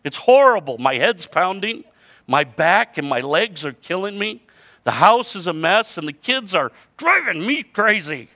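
high, loud exasperated wail; overwhelmed mom venting down the phone; frazzled mother. Acted. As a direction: complain at the top of your voice, worn out and at wit's end. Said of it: "that voice answered back".

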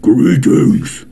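a hint of a menacing villain greeting; lightly menacing creature voice; menacing virus. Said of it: "that sounds pretty menacing there".

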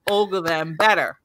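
drawn out, laughing through the words; slow, giggly appeal to the ATP; laughing plea. Real, not acted. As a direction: beg the tour while cracking up.

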